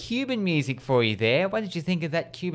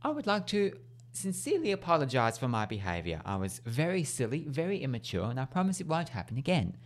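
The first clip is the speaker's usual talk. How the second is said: distinguished tone; 5 dB quieter than usual. Acted. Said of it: "in a very distinguished tone".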